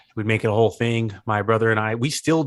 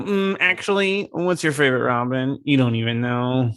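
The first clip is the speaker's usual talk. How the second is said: actually gatekeeper. Acted. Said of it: "um, actually gatekeeper".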